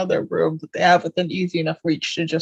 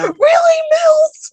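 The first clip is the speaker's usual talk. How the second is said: high, loud mock shout; exclaimed quote; 7 dB louder, much slower than usual. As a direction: shout it in high-pitched disbelief. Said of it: "else is like".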